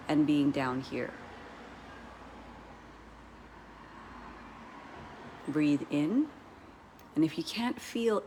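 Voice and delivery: unhurried meditation guide, long pauses between cues; guided meditation. Real, not acted. Coach guiding listeners to breathe down into the chest, guided meditation. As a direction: lead them gently through each breath, leaving space.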